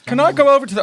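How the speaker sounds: put-on high, loud child's voice; little kid on home video. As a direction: pipe up like an excited little kid calling Mum. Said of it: "three of us are just like".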